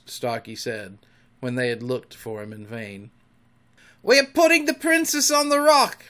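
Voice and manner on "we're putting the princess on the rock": high, loud shout across the water; pitched-up pirate call. A narrator's reading. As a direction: holler up to the captain. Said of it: "Smee called out".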